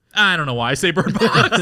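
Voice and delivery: retelling the guide's line through laughter; laughing quote. Retold or imitated. Telling a friend the tour guide's line, laughing. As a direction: quote him while cracking up. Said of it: "And he's like".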